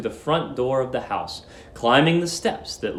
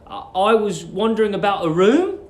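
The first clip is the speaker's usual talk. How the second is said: lightly voiced hesitant young man; 5 semitones higher than usual. Nervous young lodger.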